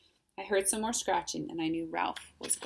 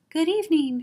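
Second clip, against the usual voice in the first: much higher, louder, silky monster voice; 10 semitones higher, 11 dB louder than usual. A narrator's reading. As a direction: pitch it way up, silky and projected. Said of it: "he said in a high, silky voice".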